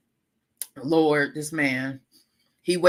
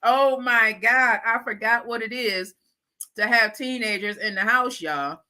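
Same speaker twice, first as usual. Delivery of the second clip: exasperated mock dismay; 3 semitones higher, slower than usual. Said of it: "I gotta laugh to keep from screaming".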